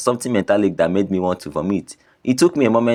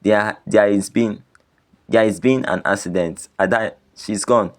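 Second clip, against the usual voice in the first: trembling voice. Acted. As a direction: stumble through the bad news. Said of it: "my voice trembling".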